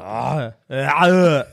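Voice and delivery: put-on drawn-out Austrian-accented groan; Arnie. Podcaster attempting a German accent challenge, comic Arnie groan. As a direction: groan like an Austrian action hero. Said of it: "I'll do, I'll do Arnie".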